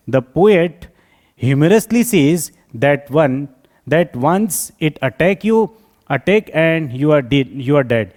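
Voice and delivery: very slow, halting read-out; slow dictation. Acted. Teacher reading the answer for students to learn, slow dictation. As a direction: dictate in short separated phrases. Reads answer aloud slowly.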